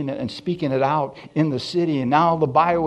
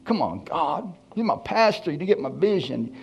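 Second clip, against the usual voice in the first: retold pleading gripe, pitch jumping up; mildly whiny appeal, as if let down; upset complaint; 5 semitones higher than usual. Preacher retells protesting to God about his pastor, upset. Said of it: "I got a little upset".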